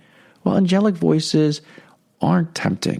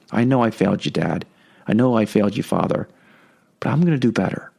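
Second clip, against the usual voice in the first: put-on contrite child; 3 semitones lower, faster than usual. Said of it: "Disappointment that I disappointed God".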